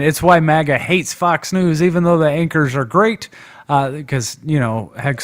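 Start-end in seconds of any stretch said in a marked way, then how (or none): 0.0-3.3 loud mock Trump rant; mock Trump scream. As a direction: shout it like an angry post. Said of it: "He's screaming".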